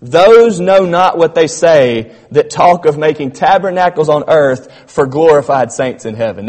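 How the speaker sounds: emphatic quote. Retold or imitated. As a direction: proclaim it like a preacher quoting scripture. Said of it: "He says".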